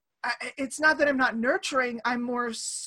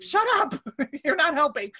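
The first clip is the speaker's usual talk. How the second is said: retold mock protest; 3 semitones higher than usual. Retort to dad laughing at her.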